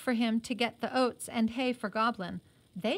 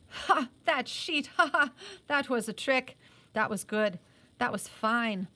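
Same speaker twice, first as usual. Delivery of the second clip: booming laugh, louder and higher on the ha; hearty laugh; 3 semitones higher, 3 dB louder than usual. Acted. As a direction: laugh it off, delighted at the trick. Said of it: "still chuckling to himself".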